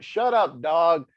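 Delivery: quick real scold at a barking dog. Real, not acted. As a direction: tell the dog off mid-sentence.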